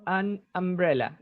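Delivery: "An umbrella" slowly, starting am- for um-; unhurried corrective model of "An umbrella", U as ah. Shown as a demonstration. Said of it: "esa U se pronuncia como A".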